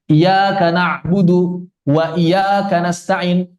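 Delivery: slow recital, "iyyaka" with an undoubled y; misread recitation. Shown as a demonstration. Ustadz demonstrating the misreading, slow "iyyaka" without tasdid. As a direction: recite slowly, leaving the y of "iyyaka" single. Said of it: "kalau misalnya kita baca".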